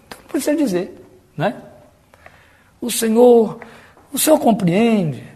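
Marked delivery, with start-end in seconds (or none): 2.8-5.2 higher-pitched, drawn-out devotional plea; mock prayer. Preacher mimicking believers talking to the Lord, affected devotion. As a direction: mimic someone explaining themselves in prayer. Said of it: "tem as nossas orações".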